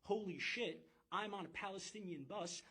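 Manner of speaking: retold alarm that escalates as it goes; terrified. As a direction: relive the fear, building to a high, urgent pitch. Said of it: "and I was still terrified".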